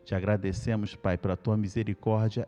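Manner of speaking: low-pitched, reverent opening prayer. Real, not acted. Pastor thanking God before the Bible study, prayerful.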